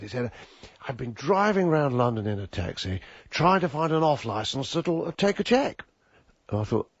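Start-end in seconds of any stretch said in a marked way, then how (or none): 0.9-5.8 retold excuse. Acting out Viv's late-arrival excuse.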